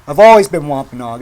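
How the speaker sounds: ordinary talk, nothing marked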